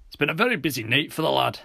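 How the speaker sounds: lifted, lilting Scottish officer; Scottish police officer. Acted. Officer Roebuck's accented dialogue.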